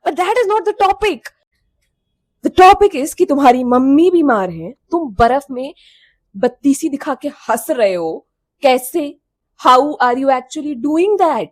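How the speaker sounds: loud, indignant disbelief; outraged rant. Real, not acted. Telling viewers about the lying friend, loud indignant outrage. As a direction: demand how she could laugh in the snow.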